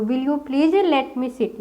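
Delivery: slow, word by word; slow dictation. Shown as a demonstration. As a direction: dictate it slowly. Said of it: "तो".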